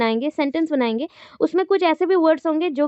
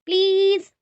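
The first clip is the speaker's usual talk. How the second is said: higher request tune on "please"; rising intonation; 4 semitones higher than usual. Shown as a demonstration. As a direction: stretch "please" upward. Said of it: "उसके बाद up होगा".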